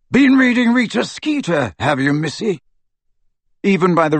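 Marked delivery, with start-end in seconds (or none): 0.1-2.6 put-on gruff old man voice. A narrator's reading. Aberforth's mocking jab.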